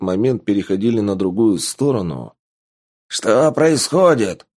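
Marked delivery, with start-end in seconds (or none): 3.1-4.5 drawn-out alarmed shout. A narrator's reading. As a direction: call out in alarm. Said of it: "выкрикнул Зор".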